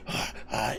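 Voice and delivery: mock dog's eager gasp; quick breathy intake of joy; excited panting gasp. Imitating dogs greeting an owner, excited gasp. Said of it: "excited, like".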